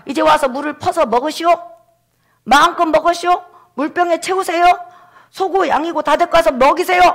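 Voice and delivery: high-pitched proclamation to a crowd; calling out. Acted. Moses inviting everyone to drink the water, calling out.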